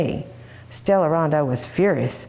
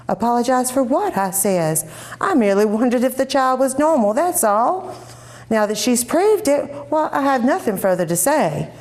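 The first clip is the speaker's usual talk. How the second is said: indignant; 6 semitones higher than usual. Acted. Sister indignant to Mama.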